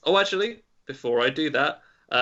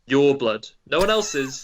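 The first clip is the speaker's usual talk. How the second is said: louder, emphatic "Your"; stress on "Your"; 6 dB louder than usual. Pretend. Quizmaster correcting a player's repeat of the clue, stress on "Your". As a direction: punch "Your" as a joking correction.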